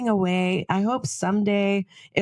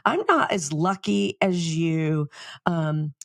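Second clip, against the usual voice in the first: mock condescending whine; 2 semitones higher than usual. Friend complaining to Vicki about luck, mock whiny. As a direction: imitate a friend feeling sorry for herself, lightly. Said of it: "It was very condescending".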